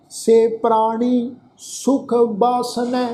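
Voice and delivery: slow, measured Gurbani recitation; scripture recitation. Shown as a demonstration. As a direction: draw out each word of the verse, evenly paced. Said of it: "ਪਾਠ ਉਚਾਰਨ". (ਹੌਲੀ, ਠਹਿਰ ਕੇ ਗੁਰਬਾਣੀ ਪਾਠ)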